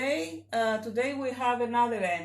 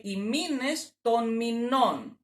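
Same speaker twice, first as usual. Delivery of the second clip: μήνες stressed on μή, μηνών stressed on the final νών; accent moves to last. Shown as a demonstration. Teacher showing the plural accent drop, stress landing on final "νών". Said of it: "the accent in plural drops".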